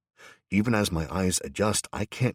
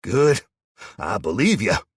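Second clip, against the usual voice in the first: menacing; 4 semitones higher, 8 dB louder than usual. A narrator's reading. Gunman before shooting.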